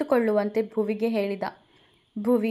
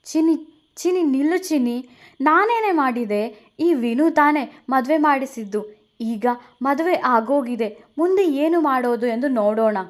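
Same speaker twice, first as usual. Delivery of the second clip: higher and louder, calling her back; calling after her; 4 semitones higher, 4 dB louder than usual. Acted. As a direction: plead as she walks away. Veda calling after Bhuvi. (ಹಿಂದೆ ಕರೆಯುವ ಜೋರಾದ ಧ್ವನಿ)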